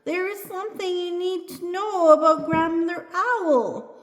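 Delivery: high calling-out voice; yelling after her. A narrator's reading. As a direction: call a warning after someone leaving. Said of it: "yells Bearheart after her".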